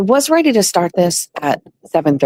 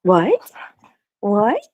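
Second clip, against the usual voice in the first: puppy-talk question; 6 semitones higher than usual. Real, not acted. Talking to the puppy.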